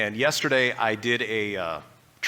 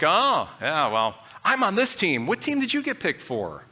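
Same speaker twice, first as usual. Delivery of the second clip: smug boast, rising much higher toward the end; mock bragging teammate; 4 semitones higher than usual. Preacher imitating a boastful teammate, smug and rising higher. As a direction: tease like a kid showing off his team pick.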